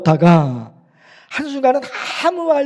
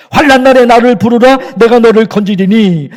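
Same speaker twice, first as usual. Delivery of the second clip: the verse proclaimed louder; louder recitation; 5 dB louder than usual. Shown as a demonstration. Pastor proclaiming the scripture promise to the congregation, louder. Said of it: "하나님의 이름을 부르며".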